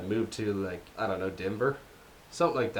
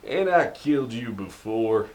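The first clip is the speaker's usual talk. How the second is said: put-on Texas accent. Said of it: "sorta like Texas".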